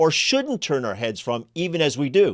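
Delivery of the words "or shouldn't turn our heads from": shouldn't strongly stressed and punched. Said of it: "that we can't turn our heads from".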